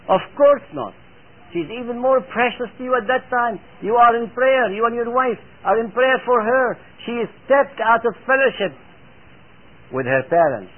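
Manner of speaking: emphatic preaching. Real, not acted. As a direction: press each point on the congregation.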